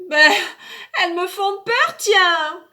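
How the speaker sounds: put-on high, pouting child's voice; a small boy insisting; little boy voice. Child answers father.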